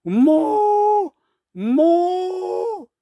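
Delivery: very high, drawn-out mooing; long high calf cry. A narrator's reading. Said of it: "길고 높은 소리로 울었습니다". (길고 높게 우는 송아지 소리)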